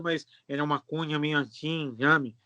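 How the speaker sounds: put-on announcer voice with a nasal speech impediment; nasal-speaking would-be radio heartthrob; lightly honked, self-important announcer talk; Epifanho. Shown as a demonstration. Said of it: "ele fazia uma voz impostada".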